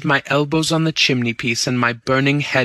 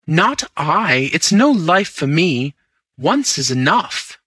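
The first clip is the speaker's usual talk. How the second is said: cried out; 5 semitones higher than usual. Acted. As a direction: push it away, rising in alarm. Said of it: "I cried out".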